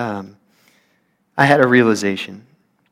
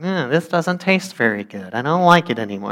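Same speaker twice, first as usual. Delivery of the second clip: mildly whiny, grumbling mock voice; whining complaint. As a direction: whine it like a fussy eater. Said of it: "they start whining and complaining".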